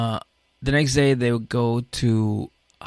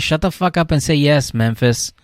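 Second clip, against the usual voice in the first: louder, higher fed-up outburst; exasperated yell; 5 semitones higher, 5 dB louder than usual. Retold or imitated. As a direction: yell at her to just agree. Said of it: "I'm like".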